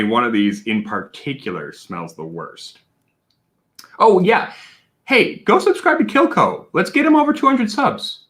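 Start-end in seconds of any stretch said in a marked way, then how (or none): 4.0-8.3 higher, louder hype call to the chat; rally the viewers like a cheerleader; excited hype. Real, not acted. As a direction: streamer pumping up chat to subscribe, excited and loud. Hyping chat to subscribe.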